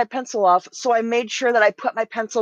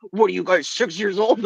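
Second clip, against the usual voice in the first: a hint of a deeper stern dad; lowered dad voice; 4 semitones lower than usual. Imitating Dad's deep scolding, lightly lowered. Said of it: "He lowered his voice as low as he could".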